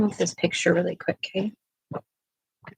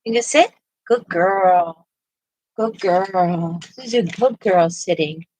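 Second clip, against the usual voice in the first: talking to a dog; 3 dB louder than usual. Real, not acted. Praising the dog.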